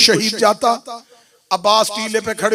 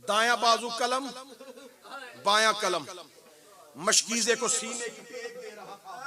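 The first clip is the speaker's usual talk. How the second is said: much softer, grave storytelling; hushed narration; 11 dB quieter than usual. Acted. Preacher telling Abbas's death to mourners, hushed. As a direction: draw them in with a near-hushed telling.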